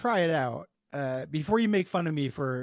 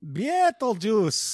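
put-on Russian accent; 6 semitones higher, 6 dB louder, much slower than usual. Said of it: "saying Beetlejuice in a Russian accent".

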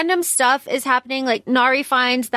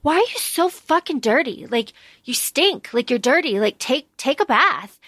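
mock teasing; 2 semitones higher than usual. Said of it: "teasing him".

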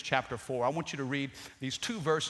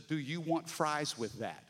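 distorted voice; 3 semitones lower, 5 dB quieter than usual. Shown as a demonstration. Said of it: "This is the".

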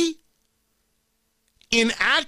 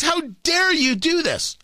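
mock indignant protester; 7 semitones higher than usual. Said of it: "They are stunned and they're shocked".

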